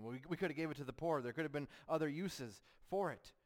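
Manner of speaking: fake concern. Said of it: "he tries to mask it as if he cares".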